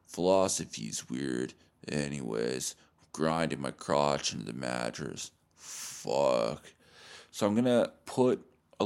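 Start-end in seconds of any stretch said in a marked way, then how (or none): 0.0-6.7 low, slow, dopey bro voice mumbling nonsense; mock dumb podcast guy. Mocking a clueless podcast guy in a low dopey drone. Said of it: "this guy being like".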